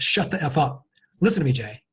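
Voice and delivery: put-on superior, domineering, commanding tone. Retelling how Tony interrupted a rambling guest: imitating a superior, domineering tone. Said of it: "he said it with the tone of voice like".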